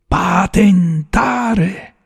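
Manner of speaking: PATENTARE drawn out syllable by syllable, high; loud, drawn-out "Patentare" for someone who missed it; spelled out syllabically. A narrator's reading. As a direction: stretch "Patentare" slowly, each syllable distinct. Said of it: "sillabò Fazio".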